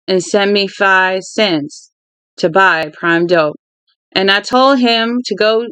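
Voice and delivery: slow, deliberate read-aloud of gritty dialogue; unhurried storytelling with lightly voiced characters; story narration. A narrator's reading. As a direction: read the tale out steadily, stretching key phrases. Reads a novel aloud.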